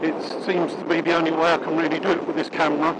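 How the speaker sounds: muffled inside a closed helmet; talking behind a shut visor. Real, not acted. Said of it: "now I've just clicked me, um, visor down".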